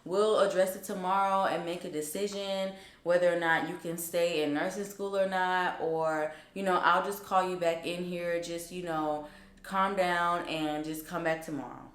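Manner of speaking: reassuring, softening as it goes; calm someone down gently, retold; consoling. Dean calming a crying student, consoling. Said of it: "felt so bad for me".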